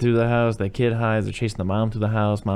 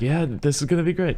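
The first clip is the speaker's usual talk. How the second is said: higher-pitched uneasy reassurance; worried dad impression; 7 semitones higher than usual. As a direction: imitate a nervous dad comforting his wife. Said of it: "a dad who's a little worried to be a dad".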